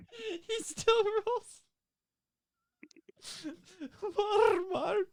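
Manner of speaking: Walmart with a rolled R, very high. Shown as a demonstration. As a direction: roll the R in Walmart slowly. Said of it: "He doesn't do the R rolls right".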